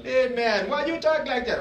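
high, loud mock Jamaican accent; comic Jamaican accent, voice jumping high. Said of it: "Jamaicans are really funny".

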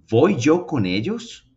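slow, rising, stress on voy; correct question. Shown as a demonstration. Teacher showing students the correct question, slow rise. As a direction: model the right order. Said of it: "deberíamos decir".

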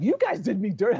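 a hint of a wounded friend; mock hurt whine. Terrence complaining to the comedians, mock hurt. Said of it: "He was like".

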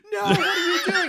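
very high panicked yell; panicked shout. Retold or imitated. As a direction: scream it in alarm. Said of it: "We're like".

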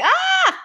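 a sudden, very high, loud startled shriek; retold startled scream. Retelling a scare at three AM, high startled shriek. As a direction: squeal like a man rounding the corner just scared you. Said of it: "I'm like".

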